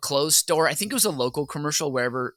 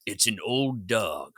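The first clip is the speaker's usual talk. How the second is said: mock Charlton Heston; 4 semitones lower than usual. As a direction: intone it like a grave old patriot. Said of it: "Charlton Heston being like".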